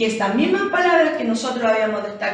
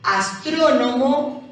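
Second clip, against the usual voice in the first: "Astrónomo" slowly, leaning on tró; drawn-out "Astrónomo" showing its stress; stressed syllable demonstration; slower than usual. Shown as a demonstration. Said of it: "cargamos la voz".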